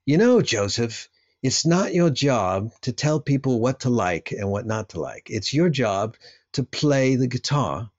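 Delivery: a lightly done, bad British producer accent; half-hearted English accent, voicing an old record producer; bad Glyn Johns accent. Retelling the producer's advice to him mid-record, in a bad British accent. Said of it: "That's my really bad Glyn Johns accent".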